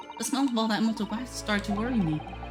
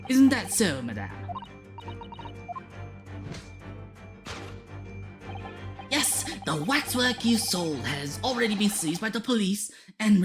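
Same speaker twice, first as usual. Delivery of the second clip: theatrical detective voice; 5 semitones higher than usual. Acted. Voices game dialogue.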